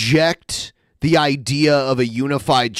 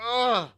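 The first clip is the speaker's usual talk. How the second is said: soft, higher strained grunt; mock heartfelt groan; 8 semitones higher, 7 dB quieter than usual. Imitating a speaker who feels what he says, strained groan. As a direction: groan as if feeling every word. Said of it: "he feels what he says. His eyes are closed".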